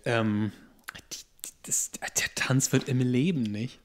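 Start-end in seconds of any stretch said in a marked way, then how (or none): 1.1-2.3 whispering. Real, not acted. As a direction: whisper it as an aside. Aside about the dance.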